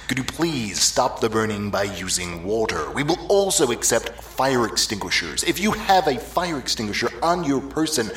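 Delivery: loud park loudspeaker announcement; flat echoey pa page. Acted. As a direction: page the whole park over the PA.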